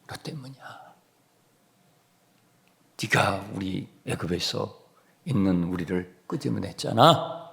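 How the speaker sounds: very soft, under-the-breath accusation; hushed blame. Acted. Israelites blaming Moses for their trouble, hushed accusation. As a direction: drop the blame to almost nothing. Same blame repeated low.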